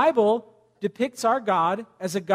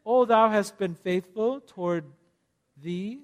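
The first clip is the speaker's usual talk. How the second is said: renaissance fair olde speech. Retold or imitated. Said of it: "speaking in Old English".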